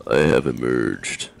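mock grand announcement.

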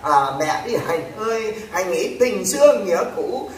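drawn-out begging call to Hạnh; hammed-up tearful plea; mock pleading wail. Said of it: "họ cũng đã van xin khóc lóc". (giả giọng than khóc van xin)

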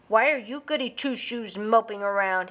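a lightly voiced bully's sneer. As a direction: sneer it down at the goody two-shoes. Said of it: "he sneered".

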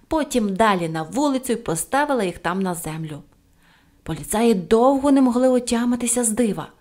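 usual speaking voice

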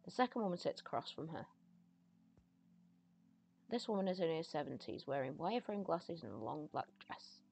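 measured storyteller reading the scene; story narration. Acted. Player reading a seance scene to viewers, measured narration. Reads game narration aloud.

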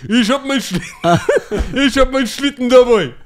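high, laughing Moroccan German Santa; hammy Moroccan German Santa bragging; Moroccan German accent. Acted. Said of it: "Dann kommt der Weihnachtsmann".

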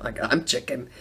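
ordinary delivery

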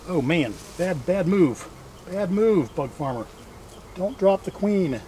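normal talking voice

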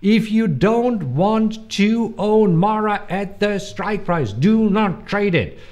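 slow, high German-accented rule. Shown as a demonstration. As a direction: spell it out in a German accent, word by word. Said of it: "my, my German accent".

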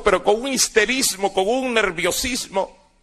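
ordinary talk

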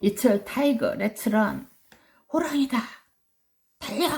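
alarmed cry. Acted. Children spot tiger and flee.

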